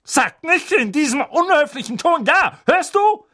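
high, loud scolding growl. Acted. Aunt growling at Harry for his tone. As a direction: snap at the rude boy. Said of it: "knurrte Tante Magda".

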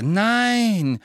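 high, long shouted no; loud, drawn-out objection; loud cry. A narrator's reading. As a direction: cry out in urgent protest. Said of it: "riefen Harry und Hermine laut".

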